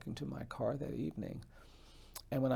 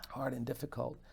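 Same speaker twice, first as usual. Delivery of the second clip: whispered; 4 dB quieter than usual. Real, not acted. Hushed aside in a speech.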